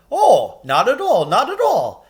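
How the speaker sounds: high, loud courteous giant; polite giant. A narrator's reading. Giant reassuring Lucy politely, high. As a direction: insist politely. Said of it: "said the giant politely".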